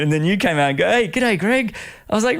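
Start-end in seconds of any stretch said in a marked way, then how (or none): 0.9-1.8 mock sing-song g'day, pitched much higher; cheery greeting. Retelling a champion swimmer's cheery hello, pitched high. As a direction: bounce it up high like a chirpy mate.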